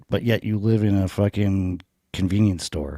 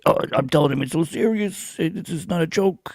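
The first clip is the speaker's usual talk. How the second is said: mock serious Joey; 9 semitones higher than usual. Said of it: "And he's just like".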